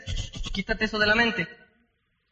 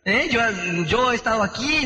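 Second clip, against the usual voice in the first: mock defensive. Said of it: "se pone a la defensiva".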